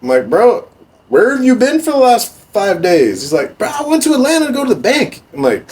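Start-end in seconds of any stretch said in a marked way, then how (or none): 0.3-3.2 high, loud incredulous yell; yelling at Southside for disappearing; mock outraged yell. Own angry retort, retold. 3.6-5.2 imitating Southside. Southside's excuse, retold.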